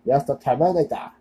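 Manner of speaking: put-on hammy movie-robot Austrian accent; bad Austrian accent. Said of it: "Austrian accent".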